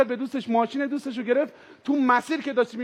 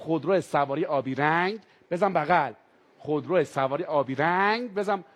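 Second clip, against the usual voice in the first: lower, official loudspeaker command; police megaphone; 7 semitones lower than usual. Retold or imitated. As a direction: call it out like a cop over the megaphone. Police orders over megaphone.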